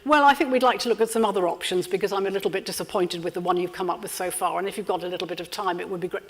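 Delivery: fast trailing soft hedge; bury the point in fast polite waffle; over-polite rushed fade-out; rambling hedged. Shown as a demonstration. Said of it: "a bit clearer than".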